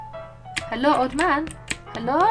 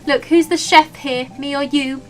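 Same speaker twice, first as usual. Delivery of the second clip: steady sheriff drawl; 3 semitones higher, 3 dB louder than usual. Acted. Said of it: "standing like the sheriff again".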